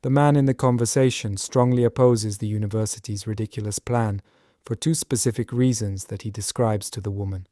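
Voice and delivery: one short break after "plan", otherwise smooth; slight pause after plan. Shown as a demonstration. Teacher demos an acceptable slight pause after "plan". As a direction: let "plan" land, pause briefly, then carry on. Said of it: "slight pause there after plan".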